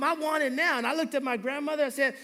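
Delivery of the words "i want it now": higher, mild mock tantrum yell; mild mock kid scream; retold scream. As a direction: imitate a demanding kid, held back. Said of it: "screamed at his mom".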